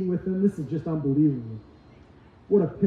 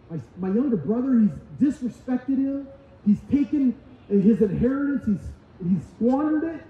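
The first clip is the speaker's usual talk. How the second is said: mock-indignant rant rising higher; angry older son; 4 semitones higher than usual. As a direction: vent like a resentful brother. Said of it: "The son was filled with anger".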